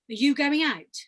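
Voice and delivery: loud, falling question. Shown as a demonstration. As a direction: project the question and let it fall. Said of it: "And a lower range".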